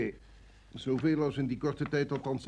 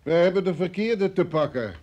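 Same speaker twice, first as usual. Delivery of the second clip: louder, sharp verdict; angry realisation; 4 semitones higher, 7 dB louder than usual. Acted. Chief telling the rookies they blundered, louder. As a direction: slam it down.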